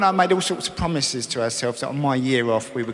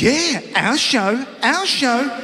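slow, higher, eager echo; excited; 8 semitones higher, much slower than usual. Retold or imitated. Wife answering husband about their show, slow eager echo. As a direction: echo him with playful glee. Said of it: "And she goes".

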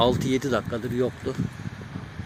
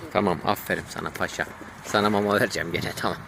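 talking to a dog; 4 semitones lower than usual. Real, not acted. Praising the dog, promising food.

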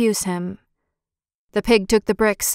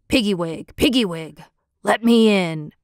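put-on old wolf; 2 semitones lower than usual. A narrator's reading. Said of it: "he cried".

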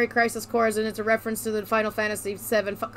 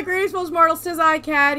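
dark lord; 4 semitones higher than usual. Acted. Loud villain greeting.

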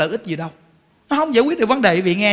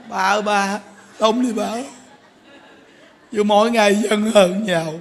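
lightly voiced grieving husband, low; a hint of a mourning lament; husband begging his dead wife to live, mock lament; mock wailing husband; 3 semitones lower than usual.

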